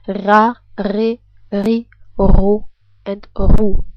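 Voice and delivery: ra re ri ro ru with a throaty R. Shown as a demonstration. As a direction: rasp the R in ra, re, ri, ro, ru. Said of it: "It should end with you saying".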